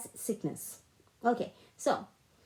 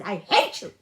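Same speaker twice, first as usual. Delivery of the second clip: retold hatred; 3 semitones lower, 7 dB louder than usual. Mother spitting hatred, retold.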